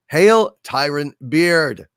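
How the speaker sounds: usual speaking voice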